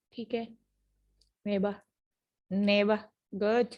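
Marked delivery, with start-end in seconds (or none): 1.5-1.8 "नेबा" ending in open "ah", no R; silent R. Shown as a demonstration. Teacher giving class examples, "नेबा" with silent R. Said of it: "किस तरह से बोला जा". 2.5-3.0 "नेबा" ending in "ah", no R; silent R. Shown as a demonstration. Teacher repeating a class example, "नेबा" with silent R. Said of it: "किस तरह से बोला जा".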